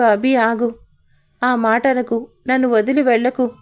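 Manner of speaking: ordinary delivery, nothing marked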